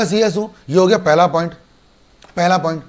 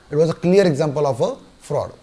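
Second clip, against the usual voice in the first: slow emphatic; much slower than usual. Shown as a demonstration. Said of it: "teacher stresses key legal phrase".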